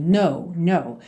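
low "Know", closed O gliding to W; silent K. Shown as a demonstration. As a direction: say "know" just like "no", rounding it off. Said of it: "O K é mudo e esse N O W é fechadinho".

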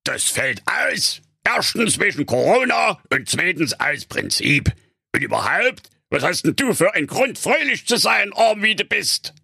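high, scornful character voice; grouchy rebuff, rising in pitch; hissing miser. A narrator's reading. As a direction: dismiss it through narrow lips. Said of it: "zischte da ... zwischen seinen schmalen Lippen".

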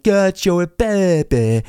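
milk "Cacio e pepe" like the meme; overpronounced. Retold or imitated. Mocking the viral blogger, overdone. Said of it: "overpronouncing that".

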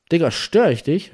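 hohe, laute, aufgeregte Frage; aufgeregt. Retold or imitated. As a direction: den Kumpel am Telefon aufgeregt überfallen. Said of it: "sprach er ganz aufgeregt". (aufgeregt nachgemachter Anrufer)

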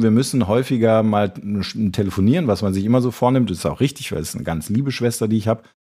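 normal talking voice

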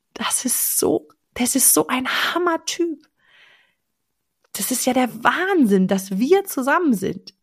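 breathy, swooning about him; dreamy gushing. Shown as a demonstration. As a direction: gush like a smitten girl. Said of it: "Das heißt, du sagst".

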